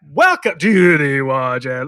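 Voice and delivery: slow, emphatic intro read; coaching demo. Shown as a demonstration. Son coaching Dad on intro inflection, slow demo. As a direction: show Dad how to put life in it. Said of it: "get a little".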